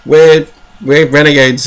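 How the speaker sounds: lightly hammed-up villain answer; mock villain reply. Night Lords answering the leader in a lightly hammed-up boast. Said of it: "It's like".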